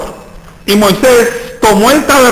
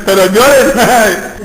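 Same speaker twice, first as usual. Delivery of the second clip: drawn-out, laughing "pero lloren"; hammed-up begging them to cry; mock pleading; much slower than usual. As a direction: stretch "lloren" slowly through a laugh. Mocking his own retreat plea.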